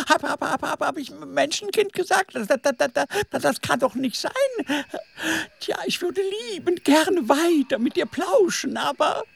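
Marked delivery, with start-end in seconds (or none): 0.1-4.3 flustered, stuttering snake; nervous stammer. Acted. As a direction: stammer as if caught lying.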